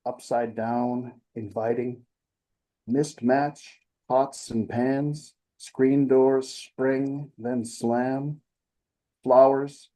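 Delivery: unhurried verse, pausing after each image; measured delivery with drawn-out line endings; poetry reading. Acted. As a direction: recite a list of images, phrase by phrase. Reads second poem aloud.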